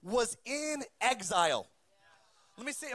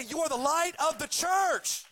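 higher, pointed mock of the wrong verse; mocking misquote; 5 semitones higher, 3 dB louder than usual. Preacher mocking the churchy misquote, raised and pointed. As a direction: sell the misquote with a knowing edge. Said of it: "No, he says".

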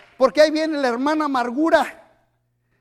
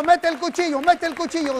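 leading a prayer; 4 semitones higher than usual. Acted. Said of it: "Diga conmigo".

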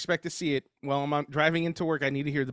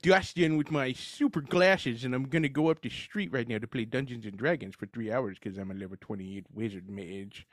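nerd voice; 4 semitones lower than usual. Acted. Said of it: "Where'd your glasses go, Urkel?".

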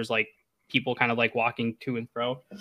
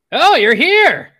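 put-on high, loud drawn-out old man's cry; shouted greeting from an excitable old hermit; excited old hermit; 14 dB louder, much slower than usual. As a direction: cry out in high-pitched relief as an old man. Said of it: "older man with a cane".

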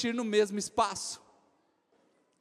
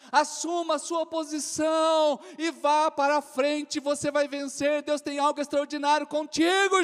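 preaching at full force; 3 semitones higher, 4 dB louder than usual. Real, not acted. Preacher's climax exhortation.

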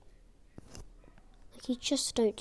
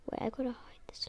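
unvoiced aside, much softer; hurried whisper; 10 dB quieter than usual. Real, not acted. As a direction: whisper it so nobody hears. Hiding something off camera.

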